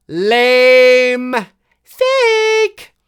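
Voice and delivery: high, loud scoffing put-down; dismissive shout. Retold or imitated. Mocking a dismissive viewer.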